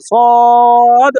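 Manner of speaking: সদ said once, firm and clear; teacher's model letter; Arabic letter sound. Shown as a demonstration. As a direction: model সদ for students. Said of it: "সদ, দত, ত এরকম না".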